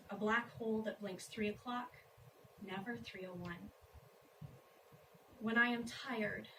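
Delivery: measured, spaced-out verse reading; poem recitation. Acted. Wife reads a poem about long marriage, poem recitation. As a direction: pause between images, lifting the final phrases.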